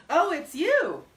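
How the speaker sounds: a hint of a loud, boastful old man; gruff old braggart. A narrator's reading. Bullard greeting the stranger.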